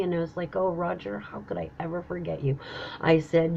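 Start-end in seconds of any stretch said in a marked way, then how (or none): 0.5-2.6 soft, low, fond reply; tender. Retold or imitated. Answering Roger at the finish line, tender. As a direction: drop low and quiet with affection.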